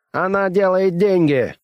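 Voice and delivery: high, slow snarling bark. A narrator's reading. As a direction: snap it out like a grumpy genius. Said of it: "рявкнул Оверхольц".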